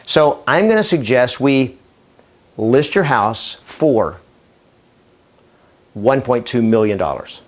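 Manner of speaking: long silence after "for", before "one point two million dollars"; pause for anticipation. Shown as a demonstration. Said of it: "just the pause creates anticipation".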